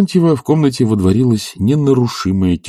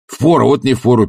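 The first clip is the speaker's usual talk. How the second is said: interrupting; 3 semitones higher than usual. Acted. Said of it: "перебил Тарантьев".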